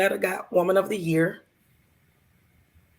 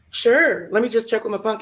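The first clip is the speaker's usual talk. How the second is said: higher, louder easy-going buddy; lightly voiced friend; 4 semitones higher, 3 dB louder than usual. Lightly voiced friend Tommy agreeing to drive her. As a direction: toss it off like a cheerful pal.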